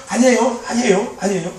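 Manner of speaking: shy denial. Retold or imitated. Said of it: "수줍음을 타니까".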